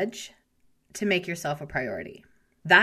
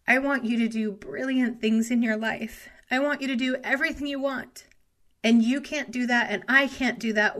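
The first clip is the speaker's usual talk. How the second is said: getting emotional; 4 semitones higher than usual. Real, not acted. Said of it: "I'm getting a little emotional".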